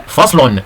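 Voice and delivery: "فصل" ending in a clear "-un"; dammatan ending. Shown as a demonstration. Teacher showing pupils tanween, "فصل" said slowly with -un. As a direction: sound the final n in "فصل", faslun. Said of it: "تنوين بالضم مثل".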